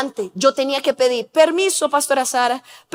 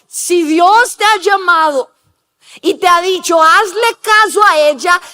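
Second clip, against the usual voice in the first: louder, insistent rebuke; stern conscience; 3 semitones higher, 5 dB louder than usual. Retold or imitated. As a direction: press the point like a firm conscience. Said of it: "mi conciencia me decía".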